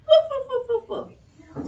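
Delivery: high, loud woofs; dog barking. Pretend. Charlie pretending to be the dog, high barking. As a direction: bark like a playful dog. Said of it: "pretended to be the old woman and her dog".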